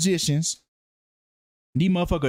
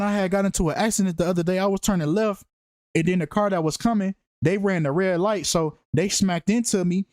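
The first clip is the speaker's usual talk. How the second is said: lightly voiced fake accident report; mock witness statement. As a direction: rattle it off like a stiff police report. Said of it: "You hear how weird that sounds?".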